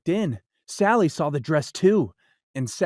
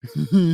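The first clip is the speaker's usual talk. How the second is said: cat chuckle; 3 semitones lower, 4 dB louder than usual. Acted. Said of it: "laughed the cat".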